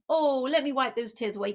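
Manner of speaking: put-on a parent sweetly comforting a crying child; cooing parent. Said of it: "another kind of response".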